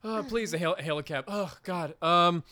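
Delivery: hammed-up nervous tourist begging a cab; mock panicked tourist. Terrified couple begging the cab driver, mock frantic pleading.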